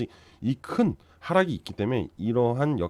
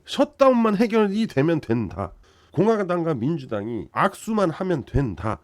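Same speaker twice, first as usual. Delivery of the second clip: emphatic declaration; 6 semitones higher, 6 dB louder than usual. Real, not acted. Repeating his own point emphatically.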